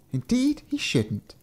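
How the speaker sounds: high, slow fairy voice. A narrator's reading. Fairy agreeing with the giant, high fairy voice. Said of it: "the fairy said".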